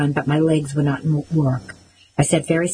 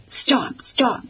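higher, pushed shout of stop; high mock bellow; 7 semitones higher than usual. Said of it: "Bear bellowed".

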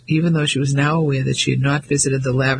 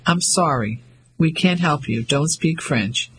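slow and distinct. Acted. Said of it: "spoke the words slowly and distinctly".

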